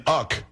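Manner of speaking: UCK as one syllable, rhyming with duck; Uck, pronounced as a single short word. Real, not acted. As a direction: say Uck instead of spelling out U.K. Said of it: "because I say Uck".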